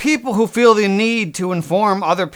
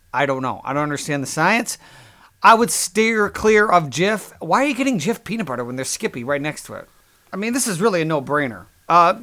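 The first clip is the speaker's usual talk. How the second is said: lightly hammed-up sponsor pitch; mock ad read. Comedian fakes a sponsor spot, mock ad read. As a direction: sell the peanut butter like a cheesy ad.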